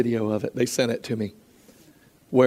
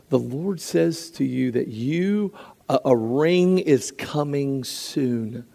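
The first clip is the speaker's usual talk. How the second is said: gentle prophecy; slower than usual. Retold or imitated. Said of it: "I said".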